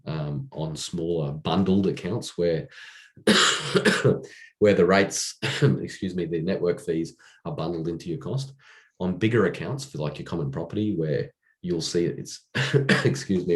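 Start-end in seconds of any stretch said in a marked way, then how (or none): 3.2-13.6 pushing words out between coughs; straining with effort. Real, not acted. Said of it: "I'm really struggling here".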